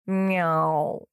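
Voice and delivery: a lightly voiced, dignified cat's meow. A narrator's reading. The big cat enters the office, dignified meow. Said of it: "с достоинством сказал он".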